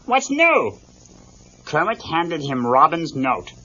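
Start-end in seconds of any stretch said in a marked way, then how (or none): 0.0-0.8 higher, goofy bear greeting; chirpy comic bear saying hi; lightly voiced Fozzie.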